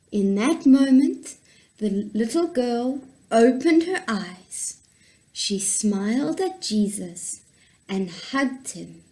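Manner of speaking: put-on gentle storytelling for kids; story narration. A narrator's reading. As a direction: read it like a children's Bible story. Reads Bible story to children.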